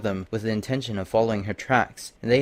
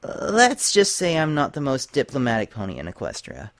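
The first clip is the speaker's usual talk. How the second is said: sheepish; 3 semitones higher than usual. Acted. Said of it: "reluctant to admit to one of her faults".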